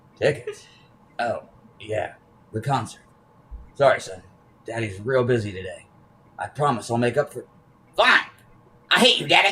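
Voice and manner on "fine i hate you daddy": put-on high, small child's voice. A son answers his busy father who can't make the concert, child voice. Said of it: "That's gonna be his voice".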